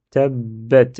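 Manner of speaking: "Tabbat" with the b held double; drawn-out double b in "Tabbat"; doubled consonant. Shown as a demonstration. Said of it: "c'est comme si je dédouble la lettre ba".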